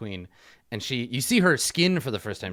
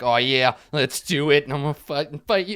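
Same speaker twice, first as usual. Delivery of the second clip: angry bird; 5 semitones higher, 7 dB louder than usual. Acted. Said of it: "He's an angry bird now".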